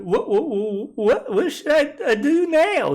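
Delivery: frightened, rising pleas; a scared fiddler begging for help; pleading. A narrator's reading. Fiddler pleading with the widow, frightened and high. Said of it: "he pleaded to the widow".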